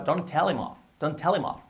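linked, running TELL HIM OFF together; quick connected-speech demo; said quickly. Shown as a demonstration. Teacher shows learners the fast version, quick and linked. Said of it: "Dicho rápido".

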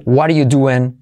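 "What are you doing" with "What are" squeezed to "wadda"; reduced form. Shown as a demonstration. Teacher offers learners another form, reduced "What are". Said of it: "Puedes decir".

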